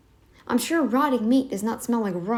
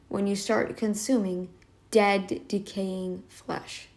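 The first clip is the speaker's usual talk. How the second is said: croaky doctor voice; 3 semitones lower, 5 dB quieter, slower than usual. Retold or imitated. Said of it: "he even said it as".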